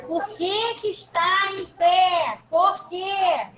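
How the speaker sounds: slow, drawn-out scolding question; stern challenge. Real, not acted. Teacher to a pupil out of their seat, stern challenge. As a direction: demand an explanation, stretching each word.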